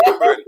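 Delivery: "tamarind" squeezed into Caribbean "tambrin", breaking into laughter; amused Caribbean "tamarind", middle vowel dropped; Caribbean pronunciation. Shown as a demonstration. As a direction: say "tamarind" as a local "TAM-brin". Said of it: "In the Caribbean, it's pronounced".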